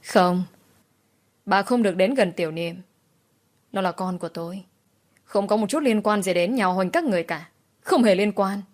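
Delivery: mildly agitated and protective; a little agitated. Acted. Mother keeps grandmother from her son, mildly agitated. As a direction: push her away with a touch of agitation. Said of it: "Tôi nói có một chút kích động".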